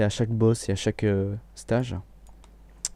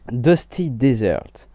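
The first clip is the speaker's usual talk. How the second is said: slow English with a French accent; bad English accent; much slower than usual. Real, not acted. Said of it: "excusez-moi pour mon accent anglais pourri".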